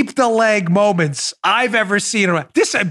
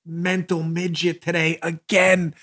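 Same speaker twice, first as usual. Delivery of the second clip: exasperated thought; 4 dB quieter, slower than usual. Retold or imitated. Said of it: "She's looking like".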